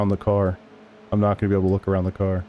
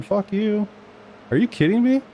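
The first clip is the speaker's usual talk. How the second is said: much higher, outraged yelp; furious, pitched way up; incredulous anger; 11 semitones higher than usual. Real, not acted. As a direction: blast it at the car ahead. Angry at the braking car.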